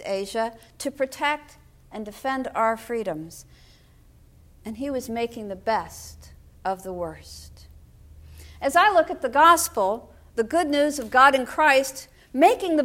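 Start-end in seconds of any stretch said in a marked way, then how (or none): 5.1-7.6 hushed whisper of the refrain. Real, not acted. Preacher recalling his father's service, soft whispered refrain.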